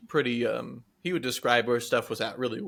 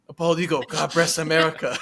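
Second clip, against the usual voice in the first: higher, louder broken English, laughing; 5 semitones higher, 5 dB louder than usual. Retold or imitated. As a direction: echo it in chopped broken English. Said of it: "but in broken English".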